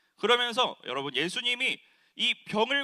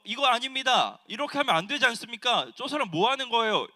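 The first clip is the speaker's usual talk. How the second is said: raised, indignant voice of a synagogue ruler, louder; loud accusation; 3 semitones higher, 4 dB louder than usual. Retold or imitated. Ruler accusing Jesus before the crowd, loud and indignant. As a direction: call out the healer to the crowd, stirred up and loud. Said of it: "이렇게 고발하는데".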